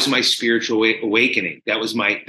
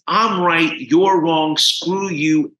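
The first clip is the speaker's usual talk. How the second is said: mildly heated, slightly raised retelling; angry; 3 semitones higher, much slower than usual. Retold or imitated. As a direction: imitate a defiant, frustrated addict. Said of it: "angry, upset, frustrated".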